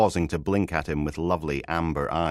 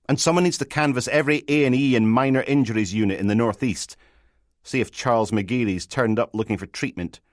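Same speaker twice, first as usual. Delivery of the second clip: higher, brisk commanding voice; sergeant giving orders; 6 semitones higher, 5 dB louder than usual. Acted. Sergeant takes charge from his bedside, brisk orders. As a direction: issue instructions briskly down the phone.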